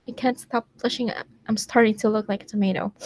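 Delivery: tongue-in-cheek romantic reading; reading fan fiction aloud. Acted. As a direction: read out a sappy love story, a little dramatic.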